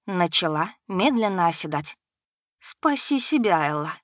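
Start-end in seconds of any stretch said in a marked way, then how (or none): 2.6-3.9 slow, sly insect voice inside her head; lightly voiced venomous insect; insect whisper. A narrator's reading. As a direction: coax her like a poisonous spider. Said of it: "нашёптывал ... едкий голос насекомого".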